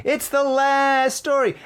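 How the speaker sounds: surprised at reaching the last story. Real, not acted. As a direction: stretch it out in disbelief. Surprised it's already the end.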